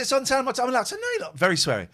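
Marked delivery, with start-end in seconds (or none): 0.0-0.9 imitating the van driver. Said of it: "he said". 1.0-1.4 retold retort. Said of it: "he said".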